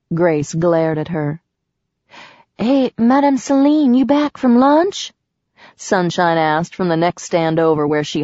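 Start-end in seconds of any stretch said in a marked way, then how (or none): 2.6-5.1 higher, bright call across the stands. Acted. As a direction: hail her from the next stall. Calling over from next stand.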